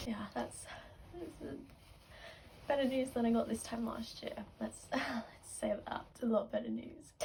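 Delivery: soft, teary, broken by little laughs; tearful. Real, not acted. Fan moved by Taylor's message, crying softly. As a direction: cry through the words. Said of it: "so now I'm crying".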